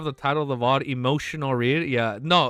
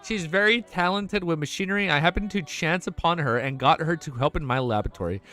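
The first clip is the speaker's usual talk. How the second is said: steady, even read-aloud narration; audiobook-style reading; story narration. A narrator's reading. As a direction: read the novel to chat.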